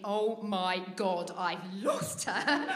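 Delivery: slow, drawn-out horror, played for laughs; mock dawning panic. Dad realising he lost his daughter, mock slow panic. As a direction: stretch it out as an imitated parent's dread.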